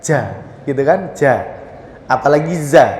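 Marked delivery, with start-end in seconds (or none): 0.0-0.3 JA with breath leaking out; wrong jim. Shown as a demonstration. Teacher showing what not to do, breathy wrong jim. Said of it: "nafasnya keluar ya". 1.1-1.5 JA with breath leaking out; wrong jim. Shown as a demonstration. Teacher showing what not to do, breathy wrong jim. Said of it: "nafasnya keluar ya".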